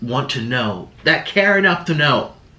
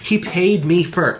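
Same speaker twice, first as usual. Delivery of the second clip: mock retort; 5 semitones higher than usual. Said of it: "I'm like".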